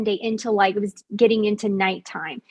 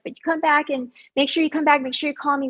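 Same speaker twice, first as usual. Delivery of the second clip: higher, hurried reminders; retold anxious urging; 5 semitones higher, faster than usual. Man at the car window urging her return, high insistent voice. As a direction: imitate someone urging a promise, pitched up.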